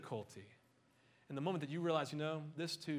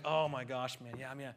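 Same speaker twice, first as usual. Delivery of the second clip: whiny buddy; 4 dB louder than usual. Retold or imitated. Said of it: "He's like".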